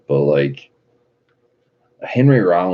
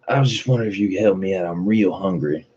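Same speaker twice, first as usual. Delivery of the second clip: imitating crackhead; 4 semitones higher than usual. Crackhead asking for help.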